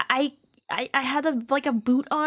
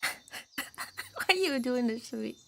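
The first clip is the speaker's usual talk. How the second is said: put-on anime girl voice; 7 dB quieter, slower than usual. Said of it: "activating anime voice".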